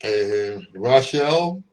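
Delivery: talking through a mask; muffled behind mask. Real, not acted. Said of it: "Rochelle says she can't hear me too clear with this mask on".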